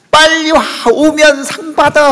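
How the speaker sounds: high, loud call imitating eager mothers; mothers shouting. Mothers in a TV contest call their children, imitated shouting. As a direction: shout like a mother urging her child over. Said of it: "하고 외치는데".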